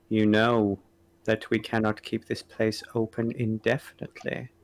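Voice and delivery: flat, blank, emotionless delivery; monotone voice. Acted. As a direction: speak in a blank, unvarying drone. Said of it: "low, monotone voices".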